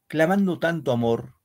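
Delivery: measured, solemn reading of verse; poem recital. Acted. Teacher reading a war poem to the class, solemn recital.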